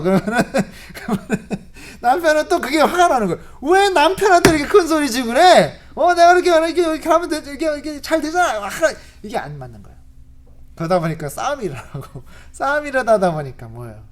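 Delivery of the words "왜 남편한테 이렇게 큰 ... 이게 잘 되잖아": loud, high indignant shout; husband yelling back at his wife, offended; angry husband. Retold or imitated. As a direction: bristle and lecture back.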